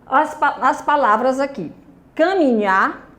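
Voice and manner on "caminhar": "Caminhar" with weight on the last syllable, nhar; teacher's demo of "Caminhar", stressed at the end; stress on final syllable. Shown as a demonstration. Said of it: "a sílaba tônica é a última".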